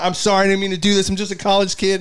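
high-pitched, pleading whine; retold tearful apology. Crying college kid apologizing to the cop, imitated pleading. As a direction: beg in a high voice, imitating near tears. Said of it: "I literally started crying".

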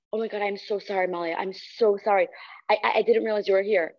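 imitated gasp, then hurried-sounding apology; mock flustered apology. Guy caught cursing apologizes to coworker, imitated flustered apology. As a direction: act out being caught, apologizing profusely.

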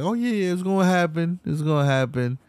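lightly imitating a rapper dodging interviews; mock rapper impression. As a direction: brush them off with a breezy yes. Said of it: "Drake is like".

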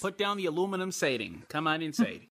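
put-on Wisconsin accent. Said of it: "do a Wisconsin accent".

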